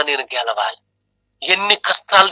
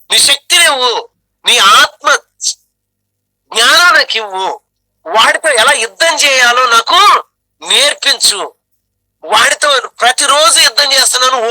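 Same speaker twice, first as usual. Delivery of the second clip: pleading prayer; 5 semitones higher than usual. Acted. Pleading prayer acted in sermon.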